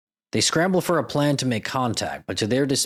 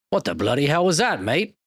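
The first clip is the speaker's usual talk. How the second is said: put-on a shaky stab at a British accent, a bit higher; bad British accent; 4 semitones higher than usual. Imitating a British newscaster in a bad British accent. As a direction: play a British newscaster, badly faked British accent. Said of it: "And it's such a bad accent".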